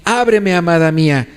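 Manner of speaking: mildly insistent plea. Acted. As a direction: press the beloved to open up. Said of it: "es una manera insistente de decir".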